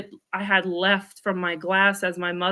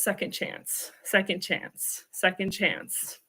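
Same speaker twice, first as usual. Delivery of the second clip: whispering; 7 dB quieter, slower than usual. Retold or imitated. Voice heard in her mind.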